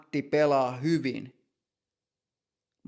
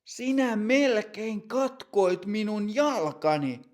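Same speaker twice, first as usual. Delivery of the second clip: complaining; 6 semitones higher than usual. Acted. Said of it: "Matti valittaa".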